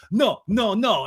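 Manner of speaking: high, loud interjection; mock protest. Sandoval cutting in on the argument, high mock protest. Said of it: "And Sandoval's like".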